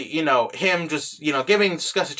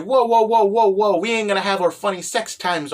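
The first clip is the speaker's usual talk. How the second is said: mock freak-out; 3 semitones higher than usual. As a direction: play someone cutting in, freaked out. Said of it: "basically starts freaking out".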